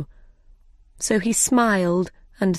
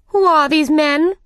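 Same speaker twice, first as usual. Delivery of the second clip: imperious demand; 9 semitones higher, 6 dB louder than usual. Acted. The Queen demands.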